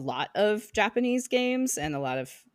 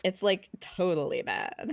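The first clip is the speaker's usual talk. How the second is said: put-on playful Valley Girl lilt, rising at the end; Valley Girl accent. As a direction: slip into a light Valley Girl accent, stretching like. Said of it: "speaks in a total Valley Girl accent".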